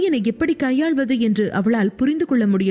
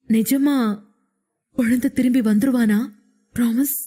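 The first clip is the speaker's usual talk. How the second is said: put-on lightly childlike pleading question; childlike asking. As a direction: ask like a small child wanting a promise. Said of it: "என்று குழந்தை போல கேட்டான்". (குழந்தை போல லேசாக கெஞ்சிக் கேட்பது)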